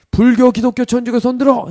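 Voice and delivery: high, loud roll-call order; angry commander. Retold or imitated. Commander repeating the count, angry shouted order. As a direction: act out an irritated officer's shouted command. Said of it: "중대장이 약간 화가 났어요".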